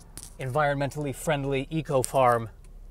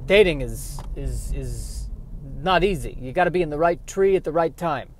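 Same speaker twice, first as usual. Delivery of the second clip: put-on kvetch it like an old Jewish uncle; Yiddish-accented squirrel. Squirrel character on dating.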